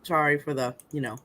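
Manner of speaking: mouth full. Real, not acted. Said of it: "talking with my mouth full".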